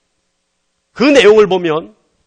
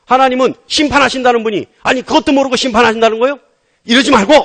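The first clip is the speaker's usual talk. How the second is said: raised, mock-indignant challenge; browbeating protest; 5 semitones higher, 4 dB louder than usual. Preacher acting Abraham questioning God's judgement, indignant browbeating. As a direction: press the point like a cheeky haggler. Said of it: "하나님을 윽박질러요".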